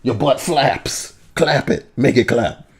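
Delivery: high, fast sleazy boss rant; hustler boss. Pretend. Playing a sleazy choir boss.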